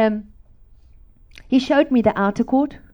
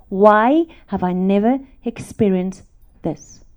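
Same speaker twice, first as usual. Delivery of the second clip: louder, slow insistent question; pleading why; 6 dB louder, slower than usual. Retold or imitated. Asking God why she never felt this, slow and loud. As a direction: lean hard into the why.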